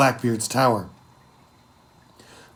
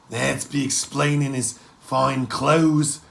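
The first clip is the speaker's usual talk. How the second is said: pirate crewman voice; slower than usual. Acted.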